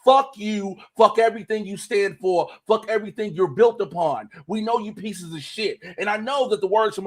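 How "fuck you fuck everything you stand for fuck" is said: angry rant. Real, not acted. Ranting at racist donors.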